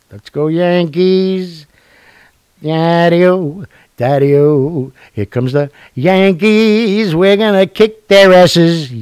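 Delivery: rally the fans for the Yankees; excited cheer. Real, not acted. Cheering on his team.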